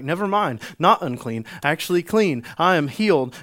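acting out a man just healed; elated realization. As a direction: announce it like sudden good news. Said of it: "and he's like".

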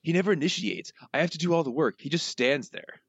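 high-pitched complaining cartoon crook; Snake. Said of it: "your best snake voice".

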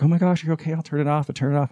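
high-pitched acted-out worry; retold alarm. Roommate sees tears start during the movie clip, retold alarm. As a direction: blurt it out like a worried friend.

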